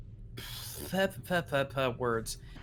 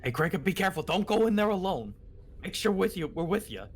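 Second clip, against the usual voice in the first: calling a warning; 4 semitones higher than usual. Acted. Character warns companion entering cave.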